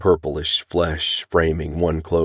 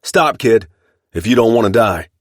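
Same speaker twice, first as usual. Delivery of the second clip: loud, much higher yell; 6 semitones higher, 6 dB louder than usual. A narrator's reading. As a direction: stop the running boy with a yell. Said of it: "and Geordie yelled".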